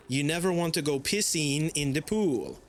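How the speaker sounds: lightly imitated French accent; mock French-accented punchline; thick French accent. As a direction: quote a teacher's joke with a touch of French. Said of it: "thick French accent".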